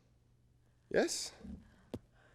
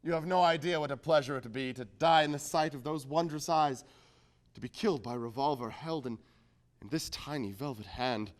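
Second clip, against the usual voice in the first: tender swooning; 4 semitones lower than usual. Acted. Suitor to the armed woman, low tender swoon. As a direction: savour the thought of dying for her. Lovestruck reply to threat.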